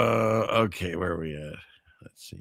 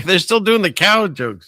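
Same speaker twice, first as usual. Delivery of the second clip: laughing; 8 semitones higher, 5 dB louder than usual. Real, not acted. Laughing at the cow jokes.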